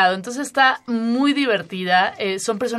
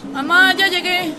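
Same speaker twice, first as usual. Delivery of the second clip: put-on young son voice; 8 semitones higher than usual. Son arrives home in drama.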